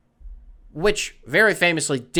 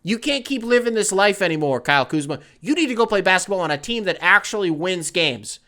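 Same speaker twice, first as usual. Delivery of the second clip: intervention voices; 3 semitones higher than usual. Retold or imitated. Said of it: "And they're like".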